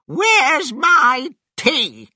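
put-on high, loud, slow old-woman shout; demanding grandma. A narrator's reading. Grandma coming outside wanting tea, demanding shout. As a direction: holler it imperiously, stretching each word.

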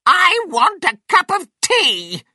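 very high, loud demanding yell; calling out. A narrator's reading. Grandma demands tea from the roof, high shouted call. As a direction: holler it as a bossy grandma. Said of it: "Grandma called from the roof".

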